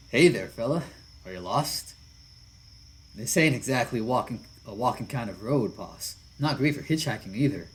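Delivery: welcoming big lug; friendly biker otter. Acted. Jesse greets the stranger.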